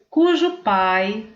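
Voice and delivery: cujo said slowly and leaned on; stress on cujo. Shown as a demonstration. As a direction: hit cujo, slow and clear. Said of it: "eu poderia dizer também assim". (ênfase em cujo, bem devagar)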